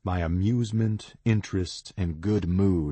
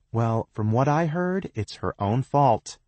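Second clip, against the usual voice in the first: gossipy; 7 semitones higher, 4 dB louder than usual. A narrator's reading. Gossiping girl chimes in.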